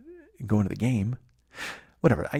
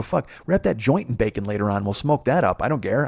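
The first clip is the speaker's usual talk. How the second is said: excited rant; 2 semitones higher, 4 dB louder than usual. Retold or imitated. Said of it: "I go".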